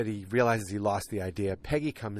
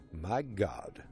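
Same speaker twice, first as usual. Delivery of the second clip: mock British exclamation; fake British accent; 3 dB quieter than usual. Podcast host quoting Kinsey, fake British accent. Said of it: "fake British accent".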